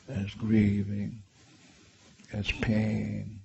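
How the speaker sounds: soft, measured apology; quietly contrite, unhurried; gentle apology. Shown as a demonstration. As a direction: ask forgiveness gently, with pauses. Apologizing to the inner child.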